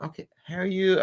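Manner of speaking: optometrist's greeting. Retold or imitated. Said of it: "she was like".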